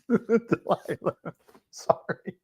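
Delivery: breathless whispered apology after a laugh; slow, airless, half-laughing sorry. Real, not acted. Laughing apology whispered to Delilah, whispered.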